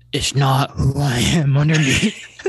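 lightly voiced superhero; a half-held hero impression; Batman. Co-host answers Bane as Batman, mock hero voice. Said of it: "Now you'll be Batman".

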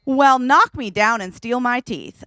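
slow, even quoting of a Southern saying; plain quoted Southern phrase. Retold or imitated. Quoting a woman's Southern saying, slow and plain. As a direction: read the old saying out plainly, unhurried. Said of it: "another phrase that a woman said was".

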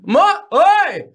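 high mock holler across the house; mock calling out. Podcaster acts out spouses calling between rooms, high mock yell. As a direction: call back as if from another room.

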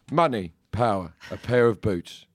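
lightly voiced Cockney Michael Caine. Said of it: "if I read something as Michael Caine".

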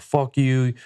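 half-voiced angry insult; retold freak-out. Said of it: "I freaked the fuck out on him".

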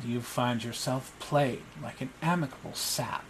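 put-on boy lord coolly berating Basilides for failing; cold young lord scolding.

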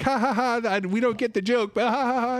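high-pitched imitation of laughing along; spoken fake ha-ha laughing; mock group laughter. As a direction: play a clueless crowd joining the laughter. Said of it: "starts laughing with her".

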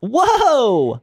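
high, amazed whoa; surprised. Real, not acted. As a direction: gasp it out, impressed. Reacting to lawyer.

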